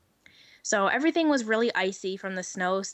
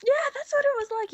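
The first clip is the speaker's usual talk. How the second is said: laughing; 12 semitones higher, faster than usual. Real, not acted. Laughing recap.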